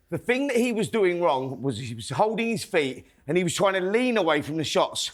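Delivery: slightly winded mid-demo; talking while catching breath. Real, not acted. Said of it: "Stop huffing and puffing".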